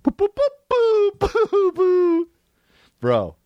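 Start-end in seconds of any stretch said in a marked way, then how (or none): 0.0-2.3 booing. Real, not acted. Booing the trailer.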